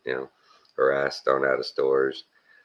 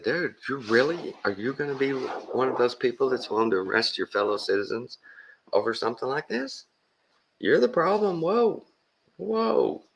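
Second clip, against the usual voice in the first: retold scolding; 10 semitones higher than usual. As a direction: needle him for arresting citizens. Lecturing the deputy.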